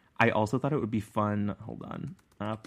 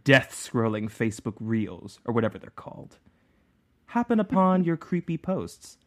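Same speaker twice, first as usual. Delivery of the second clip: dramatic imagined reader. Retold or imitated. Host reads a fan's five-star review in her imagined voice, hammed-up and dramatic. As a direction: read it like a riveted fan reliving every thrill. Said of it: "read this in the exact tone of voice as what I imagine she".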